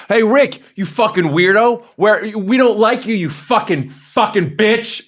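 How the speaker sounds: high, drawn-out playground taunt; mock kid bullying. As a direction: pick on a kid, pitch way up. Imagined dominating kids at camp.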